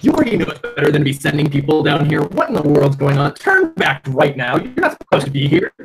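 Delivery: loud, fast scolding; cursing guard's rebuke. Acted. Guard rebukes people sent down the mine, scolding. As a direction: order the intruders back, briskly. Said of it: "you hear him curse".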